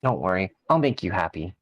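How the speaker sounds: slasher killer. Acted. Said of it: "you sound like an actual serial killer right now".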